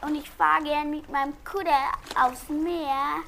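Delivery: put-on northern German Hamburg accent. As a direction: Hamburg dialect, lightly played. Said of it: "weil ich sprech anders als ihr".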